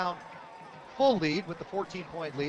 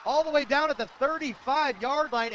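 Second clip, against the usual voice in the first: high, loud call of a breakaway return; excited play-by-play; 7 semitones higher, 4 dB louder than usual. Real, not acted. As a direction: follow the runner with urgent, raised voice. Calling a long kickoff return live.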